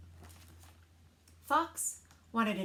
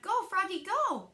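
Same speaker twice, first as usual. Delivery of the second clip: higher, louder cheer; root for him from the side; cheering shout; 8 semitones higher, 4 dB louder than usual. A narrator's reading. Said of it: "Froggy's friends shouted".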